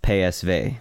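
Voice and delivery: "P S V" spelled out slowly with Dutch letter sounds; Dutch pronunciation. Shown as a demonstration. Naming the Arsenal opponent, "P S V" in Dutch letter names. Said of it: "that's how you pronounce it in Dutch".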